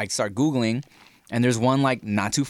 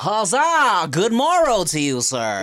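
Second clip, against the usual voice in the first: mock olde English; 5 semitones higher, 3 dB louder, slower than usual. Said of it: "old Victorian accents".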